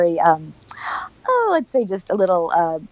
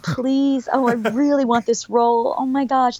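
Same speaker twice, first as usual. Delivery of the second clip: higher-pitched, re-enacted wishing; hopeful pleading; 4 semitones higher than usual. Actress retelling her wish for the role, hopeful pleading. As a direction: plead as if crossing your fingers. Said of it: "I was crossing my fingers that night".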